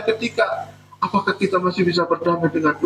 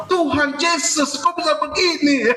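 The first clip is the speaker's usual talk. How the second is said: shocked cry; 6 semitones higher than usual. Retold or imitated. Acts shocked phone-theft victim.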